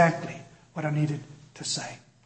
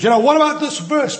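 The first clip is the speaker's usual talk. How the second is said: anxious stammer; 8 semitones higher, 7 dB louder than usual. Retold or imitated. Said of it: "the words wouldn't even come out of my mouth".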